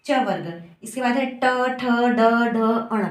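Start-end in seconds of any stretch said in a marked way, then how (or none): 1.2-3.1 ट ठ ड ढ अण with the tongue curled back; retroflex demo. Shown as a demonstration. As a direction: sound out ट to अण one by one. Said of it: "जीभ है वो मुड़ जा रही है". (ट वर्ग, जीभ मोड़कर उच्चारण)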